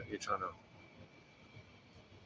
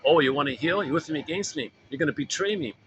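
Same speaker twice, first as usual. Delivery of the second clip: a hint of a possessive mother, a bit louder; nagging mother; 4 semitones higher, 4 dB louder than usual. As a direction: lightly voice the mother's guilt-trip. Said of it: "the memory of your mother".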